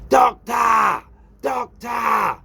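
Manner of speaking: shouting at the top of his lungs; desperate full-voice shouts for the doctor; screaming for the doctor. Retold or imitated. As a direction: yell it as loud as you can across reception. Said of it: "So I'm screaming, yeah, at the top of my voice".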